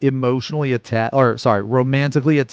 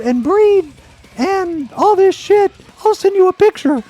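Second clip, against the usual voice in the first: very high, sing-song alien voice; sexy alien caller; 4 dB louder than usual. Retold or imitated. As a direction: squeak it like a flirty alien on the phone. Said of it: "then they're like".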